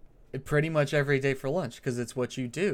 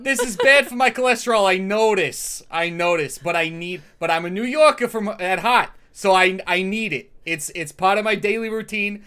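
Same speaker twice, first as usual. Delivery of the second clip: Doctor Joey voice; 4 semitones higher, 8 dB louder than usual. Acted. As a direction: announce yourself like a brash regular. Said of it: "Please do Doctor Joey ordering a hot dog".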